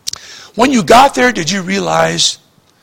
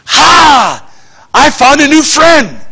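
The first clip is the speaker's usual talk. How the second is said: a lightly hammed-up, overeager friend voice; eager new friend; 7 semitones higher, 5 dB louder, much slower than usual. Preacher voicing a needy new acquaintance, lightly hammed-up. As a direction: play the lonely guy who just latched onto you.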